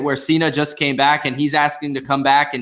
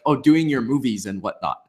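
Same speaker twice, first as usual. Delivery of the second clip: put-on a light Bulgarian accent, lower, on "doing your movies and whatnot"; a hint of Bulgarian accent on "Oh, doing your movies and whatnot"; imitating Rusev's Bulgarian accent; 4 semitones lower than usual. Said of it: "the accent and the character comes across when he's like".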